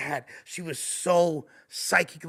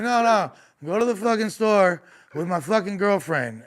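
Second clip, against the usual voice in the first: higher, louder retold drunk demand; mock drunk yell; 4 semitones higher, 5 dB louder than usual. Drunk boyfriend ordering him to take his girl, loud mock yell. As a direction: bark it like a pushy drunk boyfriend. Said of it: "He's like".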